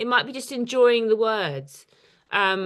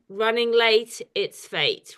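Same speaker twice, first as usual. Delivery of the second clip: reciting a poem; slower than usual. Shown as a demonstration. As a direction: read it out as a measured line of verse. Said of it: "the third line is".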